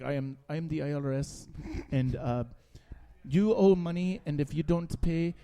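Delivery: a mild put-on Indian accent for a scam caller; a hint of a mock Indian accent. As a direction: lightly imitate an Indian scammer threatening jail. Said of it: "that's the best accent I've ever done".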